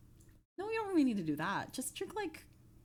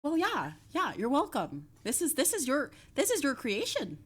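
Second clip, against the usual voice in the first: higher, louder put-on voice; random silly voice; 6 semitones higher, 4 dB louder than usual. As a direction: ham up a goofy character voice. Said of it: "trying to do random voices".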